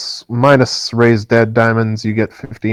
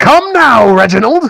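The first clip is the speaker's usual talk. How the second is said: very high-pitched, loud shout; 13 semitones higher, 6 dB louder than usual. Voicing a fleeing stranger calling to a friend: NPC shouting. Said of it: "You hear one of them shout".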